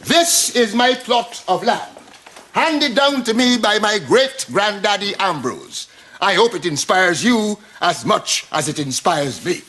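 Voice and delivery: slow, measured, ceremonial delivery; slow and stately, savouring each phrase; proud presentation. Acted. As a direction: present it grandly, taking your time. Proudly presents his plot of land.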